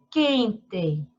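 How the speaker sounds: QUENTE slowly split as QUEN-TE; measured "quen, te"; syllable by syllable. Shown as a demonstration. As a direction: read Quente in separate syllables. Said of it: "Separar as sílabas das palavras".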